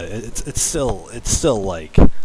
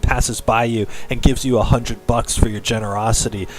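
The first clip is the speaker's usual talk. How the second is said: mock-earnest story reading; story narration; 3 semitones higher, 5 dB louder than usual. Streamer reading fan fiction to viewers, dramatic narration. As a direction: read a cheesy fan story aloud.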